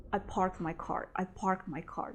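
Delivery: "parked" said without its final D, "park my car"; no D sound. Shown as a demonstration. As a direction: drop the last sound of "parked" into "my". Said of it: "So I don't pronounce here".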